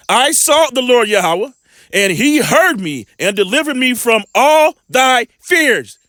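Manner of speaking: measured, slow Bible reading; preacher reading scripture aloud. Acted. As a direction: read the verse slowly like a preacher. Scripture read aloud in sermon.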